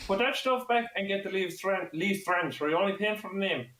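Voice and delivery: high Kermit the Frog-like shopkeeper; high-pitched caricature of advice over the counter; imitated shopkeeper. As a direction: mimic a shopkeeper, sliding into Kermit. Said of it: "like Kermit the Frog there by the end".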